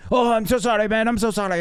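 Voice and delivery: put-on high, sheepish drunk voice; drunk apology. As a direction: pitch up and apologize like a tipsy guest.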